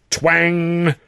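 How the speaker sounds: high, drawn-out "twang"; sudden high twanging sound word; imitated twang. A narrator's reading. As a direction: ring out the twang like a snapping cable. Narrator imitates something snapping.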